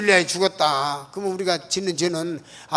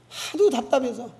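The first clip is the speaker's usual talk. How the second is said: usual speaking voice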